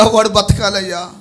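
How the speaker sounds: acted mother's building plea; pleading mother. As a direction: plead for a son's life, gathering force. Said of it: "తల్లి అంటుందయ్యా".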